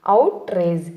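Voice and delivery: "అవుట్రేజ్" as OUT-rage; careful model of "అవుట్రేజ్", out then rage; correct pronunciation. Shown as a demonstration. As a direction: say "అవుట్రేజ్" slowly in two parts. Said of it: "కరెక్ట్గా ఎలా పలకాలి".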